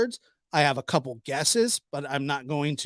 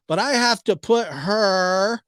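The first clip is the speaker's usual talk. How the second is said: "her" dragged out long; drawn-out her; 4 semitones higher, 4 dB louder, slower than usual. Retold or imitated. Vlogger mimics her dragging out the word her. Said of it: "she drug out the her".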